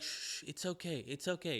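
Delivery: quietly calm a frightened man; soothing hush. Retold or imitated. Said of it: "And she's like".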